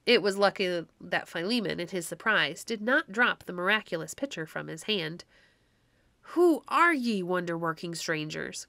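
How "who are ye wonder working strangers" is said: put-on old man crying out to the wonder-working strangers, bewildered. A narrator's reading. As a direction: call out in amazement. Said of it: "cried he".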